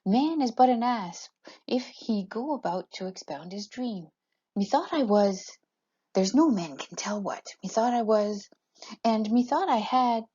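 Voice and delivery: Bottom's prose recited, slightly lifted pitch; lightly performed Bottom, with deliberate pauses between phrases; dramatic Shakespeare reading. Acted. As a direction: recite it as a lightly acted stage monologue. Reads Bottom's speech.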